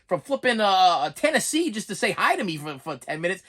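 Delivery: laughing girlish voice, mocking; lightly voiced giggling girl; mock airheaded girl, laughing. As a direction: play a giggly girl who thinks it's a fine idea. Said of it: "some of you girls out there be like".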